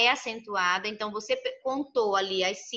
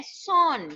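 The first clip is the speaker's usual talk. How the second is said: "Son" isolado, mais agudo e enfático; sílaba tônica destacada; 5 semitones higher than usual. Shown as a demonstration. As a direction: say "Son" alone as the stressed syllable. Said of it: "Son é a sílaba tônica". ("Son" destacado como sílaba tônica)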